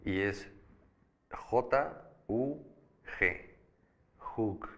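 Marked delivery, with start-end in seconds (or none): 1.3-2.7 J-U-G spelled letter by letter, pitched up; spelling out letters. Shown as a demonstration. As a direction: spell J-U-G out one letter at a time. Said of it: "a eso se le llama raíz".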